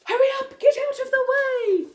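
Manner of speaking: put-on roly-poly bird hurrying the children; bird urging. A narrator's reading. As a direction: shoo the children away quickly. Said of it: "Roly-poly bird was saying".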